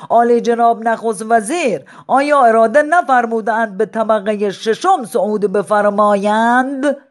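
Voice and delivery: loud, formal flattery; mock-courtly old man. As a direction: play the humble courtier.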